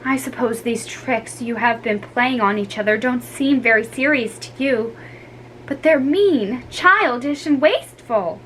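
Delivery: lightly voiced sad, firm mother; disappointed mother. Mother to children, lightly voiced disappointed. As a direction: tell them you're let down.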